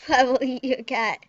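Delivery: laughing through the threat. Pretend. Laughing while trolling a friend with a fake threat. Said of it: "you guys are probably gonna hate me".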